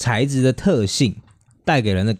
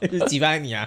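laughing; 4 semitones higher, 5 dB quieter than usual. Real, not acted. Laughing back at co-host.

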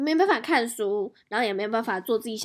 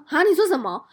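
higher, louder startled outburst with a laugh; shocked reply; 7 semitones higher, 8 dB louder than usual. Retold or imitated. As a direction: manager hearing the bad news. Manager shocked, retold. (惊讶大叫)

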